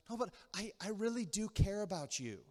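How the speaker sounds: gently sincere, acted husband; softening. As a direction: soften mid-fight and reassure your wife. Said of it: "the husband kinda softens".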